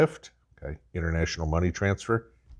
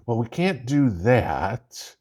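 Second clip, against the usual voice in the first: slow, higher, different voice; mock officials refusing; mock refusal; 4 semitones higher, slower than usual. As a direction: drag it out helplessly. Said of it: "acted mock dialogue, refusal".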